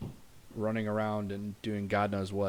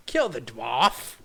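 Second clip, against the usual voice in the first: louder, slow Kill the dwarf shouted; hammed-up battle cry; 2 semitones higher, 8 dB louder, much slower than usual. Streamer's figure shouting Kill the dwarf. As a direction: bellow Kill the dwarf slowly. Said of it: "He's like".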